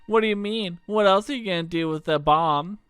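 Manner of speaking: put-on cocky young troublemaker; Kid voice. Kid teasing Serge, lightly voiced brash girl. Kid's voice.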